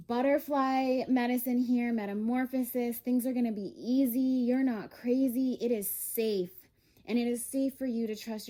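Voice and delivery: impassioned affirmation to the listener; fervent reassurance. Real, not acted. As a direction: proclaim it with high, loud conviction. Proclaiming an uplifting message to listeners.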